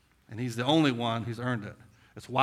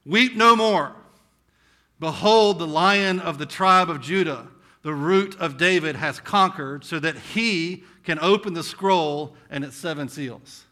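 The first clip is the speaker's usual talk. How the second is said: louder, higher proclamation, slowing at the end; elder's proclamation; 3 semitones higher, 7 dB louder, slower than usual. Acted. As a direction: proclaim it like the elder comforting John. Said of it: "one of the elders said to me".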